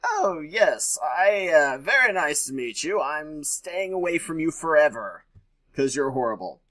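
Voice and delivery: sweetly fake-nice brush-off, mildly hammed up; mock sweet politeness. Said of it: "So it's like".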